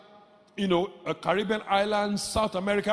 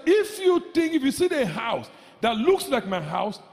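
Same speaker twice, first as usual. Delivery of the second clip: preaching shout; 4 semitones higher than usual. Acted. Preaching, quoting Jesus loudly.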